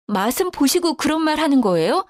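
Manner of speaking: a touch of angry protest; indignant challenge. A narrator's reading. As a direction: challenge her in disbelief. Daughter-in-law challenges her.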